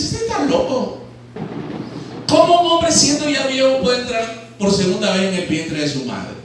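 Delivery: a startled rabbi who can't believe it; surprised disbelief. Retold or imitated. Preacher voices Nicodemo shocked by Jesus' words. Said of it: "se queda sorprendido y dice".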